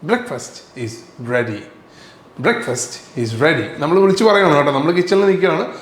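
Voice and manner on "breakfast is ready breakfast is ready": slow, drawn-out breakfast is ready; slow classroom repetition; very slow teaching model. Shown as a demonstration. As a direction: spell it out slowly for learners. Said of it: "എന്താണ്?".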